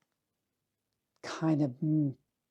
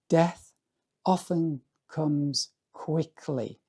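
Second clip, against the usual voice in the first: poetic voice like Seamus Heaney; slower than usual. Acted. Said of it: "read it with a poetic voice, like Seamus Heaney".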